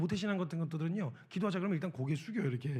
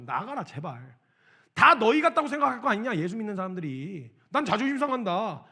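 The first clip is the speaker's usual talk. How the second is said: angry outburst; 3 semitones higher, 6 dB louder than usual. Retold or imitated. Retold kids' outburst.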